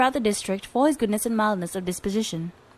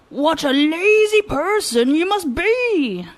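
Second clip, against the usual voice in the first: higher, loud, slow furious yell; angry shout; 8 semitones higher, 6 dB louder, much slower than usual. Acted. Taro angrily shouting at the governor's riders. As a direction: scold them at the top of his voice. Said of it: "Taro got angry and shouted still more loudly".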